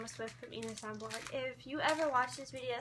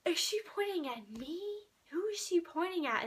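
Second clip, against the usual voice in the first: retold disbelief; 6 semitones higher than usual. Retold disbelief at being pointed at.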